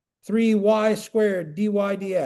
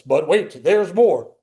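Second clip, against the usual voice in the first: bad announcer voice; 5 dB louder, slower than usual. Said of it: "in my bad announcer voice".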